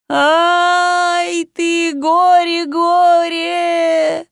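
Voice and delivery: high, drawn-out keening wail; wailing lament. Acted. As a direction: wail it like a village mourner. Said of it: "завыла она".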